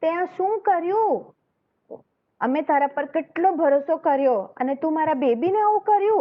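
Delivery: hammed-up furious mother scolding the mongoose; angry scream. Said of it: "And she screamed so loudly".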